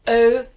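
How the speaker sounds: O said loud and clear; French eaux sound. Shown as a demonstration. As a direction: eaux as a pure O, the X silent. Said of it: "sound exactly the same".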